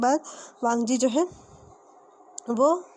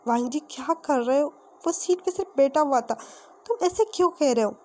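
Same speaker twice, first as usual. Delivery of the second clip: acted protest climbing higher in pitch; reproachful protest; 3 semitones higher than usual. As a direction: remonstrate with a friend, without shouting. Friend protests rough treatment.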